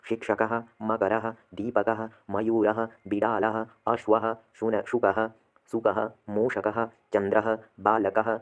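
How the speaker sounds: slow, syllable-by-syllable Sanskrit words; careful pronunciation drill. Shown as a demonstration. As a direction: spell out each word slowly for students to repeat. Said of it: "पहले हम एक बार इसका उच्चारण कर लेते हैं". (धीमा, स्पष्ट उच्चारण अभ्यास)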